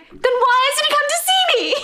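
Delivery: very high, laughing imitation of a plea; mock plea. Stella asks after absent Rocco, acted as a high plea. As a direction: plead it in a high voice through giggles.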